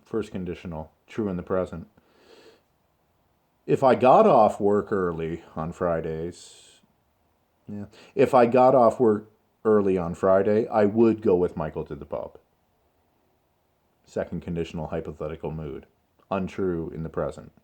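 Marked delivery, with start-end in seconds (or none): 3.6-12.4 measured, flowing example sentence; slow, controlled model answer. Shown as a demonstration. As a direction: model it carefully, with "would" distinct. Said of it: "this is the way in which I would like you to consider speaking".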